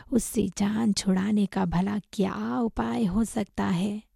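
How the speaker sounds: hushed, harsh rebuke in a half-whispered voice; angry scolding. Acted. Master blaming his monkey disciple for the trouble, angry scolding. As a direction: scold through a husky near-whisper. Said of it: "गुस्से में चिल्लाकर वानर से कहा".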